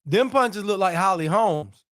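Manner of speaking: slowed down, leaning on "punches"; slow emphatic repeat. Real, not acted. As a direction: spell it out slowly so it lands.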